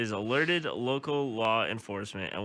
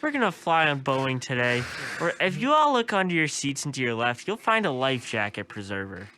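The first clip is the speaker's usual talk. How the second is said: flight attendant voice; 3 semitones higher than usual. Retold or imitated. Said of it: "imitating flight attendant announcement".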